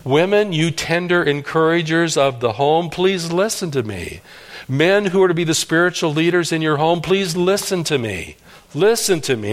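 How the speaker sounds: weeping prophet crying out to his people, pleading. Retold or imitated. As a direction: beg them to listen, voice lifted. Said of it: "he's crying out to the people".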